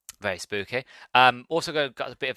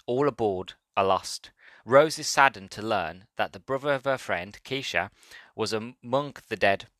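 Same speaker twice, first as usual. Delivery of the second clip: a light touch of announcer voice for a book blurb. Shown as a demonstration. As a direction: read it like a trailer voiceover, only mildly. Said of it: "get my announcer voice into it".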